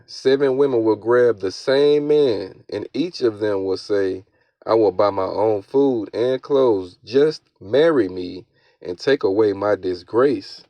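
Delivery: slow, emphatic verse reading; scripture reading. Acted. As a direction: read it out deliberately, leaning on key words. Reads scripture aloud.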